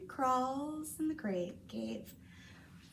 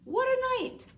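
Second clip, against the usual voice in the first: higher exclaim as the mole; lightly voiced mole; muttering mole; 12 semitones higher, 4 dB louder than usual. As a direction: fuss about the weather as the mole. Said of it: "Mole mutters".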